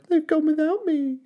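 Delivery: cried. A narrator's reading. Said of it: "he cried".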